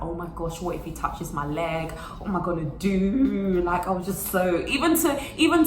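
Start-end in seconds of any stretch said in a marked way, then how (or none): 0.0-3.6 nervous inner panic. Retold or imitated. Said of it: "because I was like".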